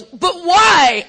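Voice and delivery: loud, high whine; high, exaggerated mock protest; protesting newcomer. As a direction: whine it like a baffled child. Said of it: "And then she goes".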